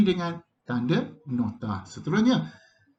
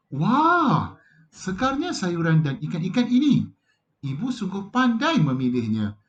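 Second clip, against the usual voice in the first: bright, higher exclamation of delight; delighted child; 4 semitones higher, 4 dB louder than usual. Acted. Nabila admiring her mother's shopping, delighted and higher. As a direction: gush over the fresh food. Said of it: "kata Nabila".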